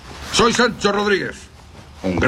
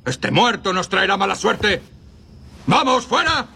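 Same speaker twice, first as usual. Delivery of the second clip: alarmed outburst; 5 semitones higher than usual. Acted. Bandit reacts to the killing.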